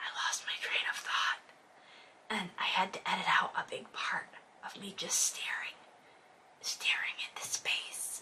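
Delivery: very quiet, breathy whisper, barely audible. A video creator addressing viewers at the end of a video, whispering.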